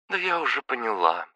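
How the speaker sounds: тише, печально; с грустью соглашается; sadly. Acted. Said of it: "печально ответила Мико". (Мико печально отвечает подруге)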